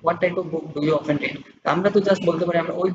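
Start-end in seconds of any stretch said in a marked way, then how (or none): 0.0-1.4 slow dictated question. Shown as a demonstration. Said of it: "আমাকে বলছে যে কি".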